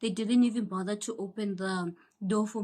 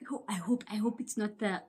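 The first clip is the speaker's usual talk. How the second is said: anxious whisper; inner worry. Retold or imitated. Worrying in her head about the painful check, whispered. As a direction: whisper it to yourself. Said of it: "in my head, I'm like".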